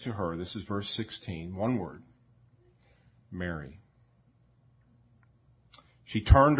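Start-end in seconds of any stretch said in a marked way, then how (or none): 3.3-3.8 soft, loving call of "Mary."; tender calling of a name. Retold or imitated. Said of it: "the loving way, the inflection, the tone of voice".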